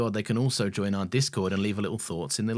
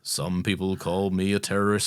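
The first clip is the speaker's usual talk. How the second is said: Mandarin villain quote. Retold or imitated. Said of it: "fake Mandarin in Iron Man three".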